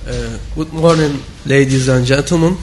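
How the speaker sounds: speaking with a sore throat; hoarse from a sore throat. Real, not acted. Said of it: "sorry for my, uh, sore throat".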